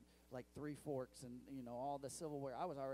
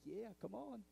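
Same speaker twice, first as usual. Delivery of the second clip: higher, egging-on voice; cheering God; 6 semitones higher than usual. Retold or imitated. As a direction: cheer the worshipper on from the stands. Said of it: "he just sits there and goes".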